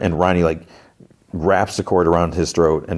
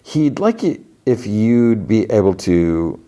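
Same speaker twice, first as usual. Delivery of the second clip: higher, oily salesman patter; snake oil salesman; 4 semitones higher than usual. Retold or imitated. Salesman delivering McLean's message, higher salesman voice. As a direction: pitch it like a sly salesman. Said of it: "Snake oil salesman, it's like".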